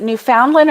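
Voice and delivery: "Newfoundland" with FOUND as spelt; "Newfoundland" with an OW in the middle. Shown as a demonstration. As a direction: say "Newfoundland" as new-FOUND-lin. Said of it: "is it Newfoundland or Newfoundland?".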